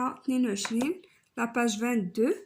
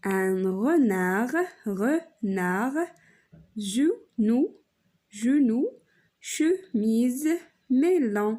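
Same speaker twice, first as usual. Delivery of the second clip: drawn out teaching demo; much slower than usual. Shown as a demonstration. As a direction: stretch un renard slowly. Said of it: "لو سون كي سو ريبيت". (نطق ممدود للتلاميذ)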